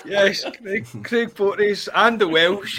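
high, laughing banter; laughing at the co-host's joke about Craig Porteous. Real, not acted.

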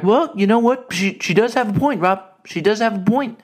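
a hint of an older dad chiming in; lightly voiced retired dad; dad agreeing. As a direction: side with mom, mildly. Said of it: "my dad's in the back".

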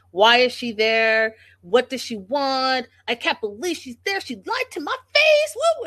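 hammed-up panic that climbs to a shriek; mock freakout. Vlogger imitating Pedro freaking out on the phone, hammed-up. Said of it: "he freaks out".

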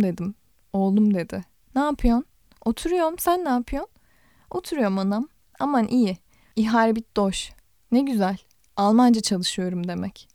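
steady literary read-aloud, voicing the dialogue lightly; calm audiobook narrator; story narration. A narrator's reading. Reads a novel aloud.

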